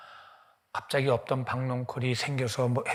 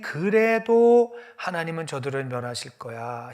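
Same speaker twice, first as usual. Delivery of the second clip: huffing; 2 semitones higher, 7 dB louder than usual. Acted. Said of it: "씩씩거리면서".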